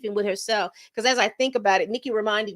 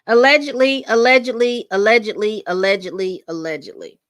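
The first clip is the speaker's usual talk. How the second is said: teasing allegedly; 6 dB louder than usual. Acted. Hedging a rumor to the chat, teasing and fading. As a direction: chant the disclaimer, trailing away. Repeating disclaimer about rumor.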